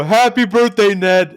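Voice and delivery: high, hammed-up birthday cheer; mock cheery greeting. Kids teasing Ned in the cafeteria, mock cheer.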